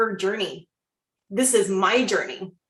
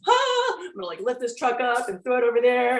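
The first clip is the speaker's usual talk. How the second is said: high burst of mock superhero strength; excited, playful power boast; pumped-up bravado; 3 semitones higher than usual. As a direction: sound like you could lift a truck. Quoting her superhero energy.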